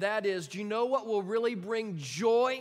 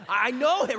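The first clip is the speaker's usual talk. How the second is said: plain; 3 semitones higher, 10 dB louder than usual. Shown as a demonstration. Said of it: "But you can just say".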